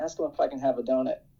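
whisper. Retelling a line said while leaning over to someone: imitating a whisper. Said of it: "leans over to her and whispers".

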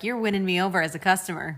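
ordinary delivery

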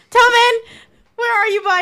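calling out loudly. Calling out for a lost companion in fog: calling out a name. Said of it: "call your name as I'm like".

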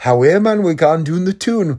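high, put-on Geordie accent. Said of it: "a Newcastle Geordie accent".

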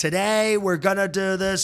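put-on yelling showman voice. Showing how to start a Trump impression, yelling Trump voice. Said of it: "It's sort of a yelling".

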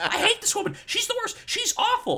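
mock very high, shrill, loud, mad, furious tirade. Retelling a woman's tirade against someone, acting it out as a mock-angry rant. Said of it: "Catherine's mad and pissed".

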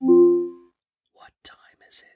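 whispering slowly. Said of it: "I think you just whispered to me".

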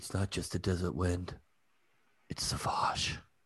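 breathy, barely whispered cool-guy voice. Correcting another speaker's take on the Sauvage ad, doing Johnny Depp's cool guy voice. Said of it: "You didn't do his cool guy voice".

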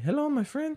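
very high-pitched, squeaky man's voice. Imitating a Mexican boxer who talks in a very high-pitched voice. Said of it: "He's like a very high-pitched voice".

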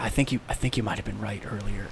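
hushed whisper. A player in a role-playing game leans over to Pumpkin, whispering. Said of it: "and I whisper".

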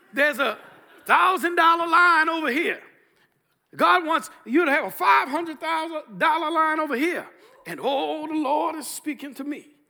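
loud preacher sermon-style delivery. Retelling a preacher's offering-time appeal at his church, mimicking the preacher's voice. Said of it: "I'm mimicking his voice".

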